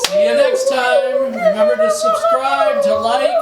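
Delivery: sing-song youtuber outro; hyped outro. Acted. Sign-off of the video.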